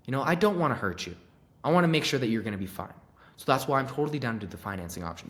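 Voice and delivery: calm, caring sales voice; calm and concerned. Shown as a demonstration. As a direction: reassure them gently. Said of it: "in a very calm and concerning way".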